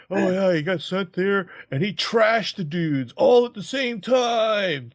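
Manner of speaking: put-on high, loud valley-girl gossip; gossiping teen girl. High school gossiper gushing about Buddy in a loud high voice. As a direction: gush about him like a giddy teen. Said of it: "oh, you know".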